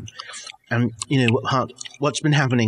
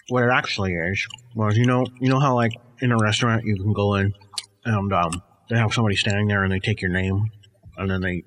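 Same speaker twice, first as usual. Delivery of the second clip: mumbly, apologetic guy; a hint of a sheepish guy; 3 semitones lower than usual. Second character Frank, softer lower voice.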